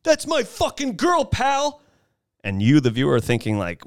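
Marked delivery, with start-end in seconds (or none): 0.0-1.8 jock threat. Retold or imitated. Jock threatens in movie retelling.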